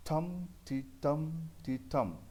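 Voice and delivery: टम held and accented, टी short and mild; stressed and unstressed beats. Shown as a demonstration. Teacher demonstrating the pattern to students, stress on टम. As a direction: beat out the rhythm, leaning on each टम. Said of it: "टम को थोड़ा loudly बोलना है".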